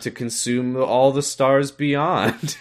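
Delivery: slow, flat, bored drone. Retold or imitated. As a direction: deliver the threat with no interest. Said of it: "has the most bored voice".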